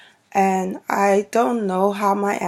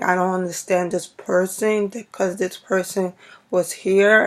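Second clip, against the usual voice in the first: lightly imitated nasal Bronx talk; nasal Bronx accent. Shown as a demonstration. Vlogger mimicking people from the Bronx, lightly nasal. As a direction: talk through the nose like the Bronx. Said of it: "talking to their nose".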